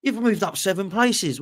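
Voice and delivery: high, slow, sarcastic wow; mock amazement. Mocking fans who cheer a fifth place, in sarcastic awe. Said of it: "you go".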